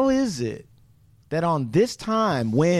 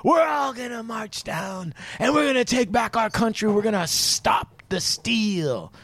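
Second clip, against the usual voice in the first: raised voice, stretched-out rally cry; mock rally speech; 6 semitones higher than usual. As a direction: lightly mimic a politician rousing a crowd. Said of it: "got up there and said".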